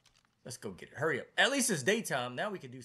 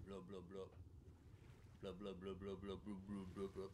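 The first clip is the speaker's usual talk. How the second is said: gurgling fish man croak; 4 semitones lower, 11 dB quieter than usual. Pretend. Making fish noises to lure.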